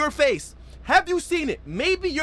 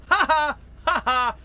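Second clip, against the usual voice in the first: retold laughing; 2 semitones higher than usual. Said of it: "I'm laughing".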